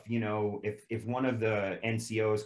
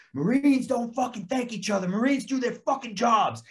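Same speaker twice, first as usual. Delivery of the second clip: higher, sharper barked rebuke; sergeant's rebuke; 12 semitones higher, 5 dB louder than usual. Retold or imitated. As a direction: scold the recruit like a drill sergeant. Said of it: "he was like".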